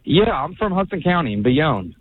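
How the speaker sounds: muddled Southern-tinged accent; unconvincing Southern accent; odd Southern-sounding accent. Real, not acted. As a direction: speak in a hard-to-place Southern accent. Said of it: "have that kind of accent".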